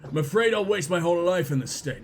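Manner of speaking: low, sombre character voice; troubled young surgeon. Acted. Surgeon confiding fears about his father, low troubled voice. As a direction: confess it low and earnest.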